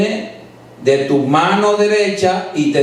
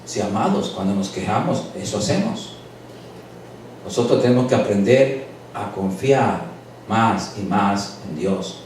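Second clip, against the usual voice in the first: softer, lower heartfelt sermon voice; gentle preaching; 4 semitones lower, 3 dB quieter than usual. Acted. Pastor tenderly counseling his congregation, softer and lower. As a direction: ease down and speak tenderly to the flock.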